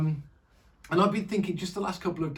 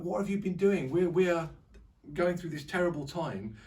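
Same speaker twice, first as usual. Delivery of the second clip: mild, higher-pitched remonstrating; retold rant; 4 semitones higher than usual. Preacher voices Gideon ranting at God, mildly exasperated. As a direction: act out a touch of exasperated complaint. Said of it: "starts to have a rant".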